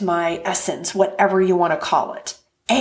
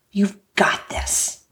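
whispered encouragement. Real, not acted. Coach to podcast listener, whispered slow encouragement. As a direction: breathe it to the listener like a secret pep talk.

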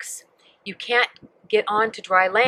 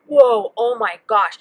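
loud, slow, amazed exclamation; acted astonishment; shocked amazement; 6 dB louder, slower than usual. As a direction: draw it out loudly like a stunned onlooker. Acting out shocked onlooker's reaction.

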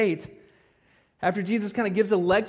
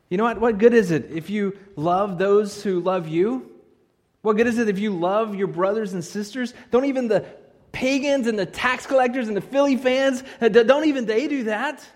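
fervent preaching; 4 semitones higher, 7 dB louder than usual. Real, not acted. Preacher driving point home.

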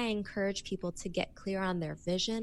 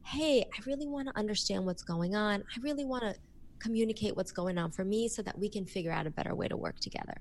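open and curious; faster than usual. Shown as a demonstration. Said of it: "it's about your energy".

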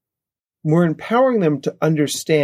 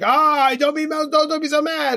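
mock high shushing voice, much higher; mocking people who shush anger; 13 semitones higher than usual. Mock soothing. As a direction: people telling a kid not to be mad, mocked in a squeaky higher voice. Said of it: "people say, like".

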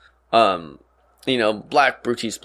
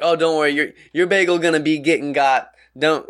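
ridiculous slang; 3 semitones higher than usual. Retold or imitated. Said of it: "talking like that, like, just to be ridiculous".

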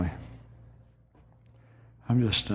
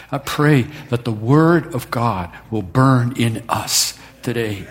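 preacher praying aloud for the church; fervent prayer; 3 semitones higher than usual. Acted. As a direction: pray it over the room with building fervour. Pastor prays over congregation.

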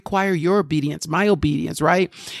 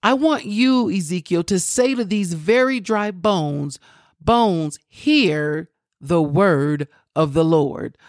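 raised pitch falling into slow proclamation; emphatic preaching; slower than usual. Acted. Preacher voicing God's command to Ezekiel, emphatic proclamation.

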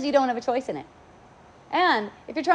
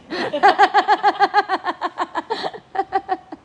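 high, ringing laughter; 7 semitones higher, 4 dB louder than usual. Real, not acted. Laughing at thanking for noticing. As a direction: keep laughing.

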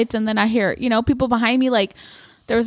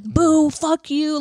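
drawn-out, higher-pitched heckle; mock yelling; 5 semitones higher, much slower than usual. Family booing the other fighter, mock yell. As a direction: imitate a booing crowd without full volume. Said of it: "literally yelling at this other fighter".

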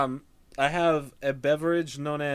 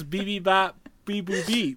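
higher robot beeps; toy robot voice; 4 semitones higher, slower than usual. Shown as a demonstration. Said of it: "Nah, man, it goes".

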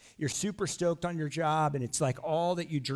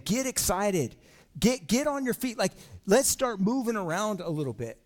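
hype call; 6 semitones higher, 3 dB louder than usual. Retold or imitated. Voicing David's call to dance.

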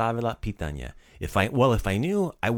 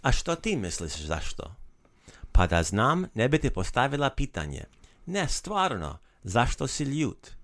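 a clear, even reading for learners; read aloud to learners. Shown as a demonstration. The teacher reading the lesson dialogue aloud to learners, clear and even. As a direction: read the dialogue to the listeners so they can follow. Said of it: "So I'm gonna read it to you again".

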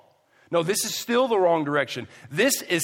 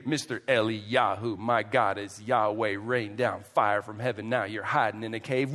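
lower-pitched mocking taunt; sarcastic ridicule; 4 semitones lower than usual. Preacher as God ridiculing Elijah for hiding, sarcastic. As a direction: needle him with his own boasts. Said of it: "spiritual gift of sarcasm and ridicule".

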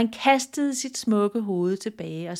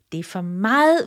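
louder, irritated outburst; irritated exclaim; 6 dB louder, faster than usual. Acted. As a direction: snap it out, losing patience. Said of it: "udbrød kongen irriteret".

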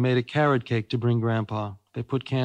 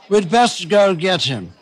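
high, slow royal resolve; decide it grandly like a king; decisive King; 5 semitones higher, 6 dB louder, slower than usual. Acted. King deciding to fetch Molly's father, slow and high. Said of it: "said the King".

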